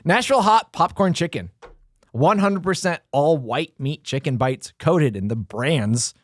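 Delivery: measured promotional read; announcer-style product read. Acted. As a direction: read the menu copy out deliberately. Reads food promotion copy.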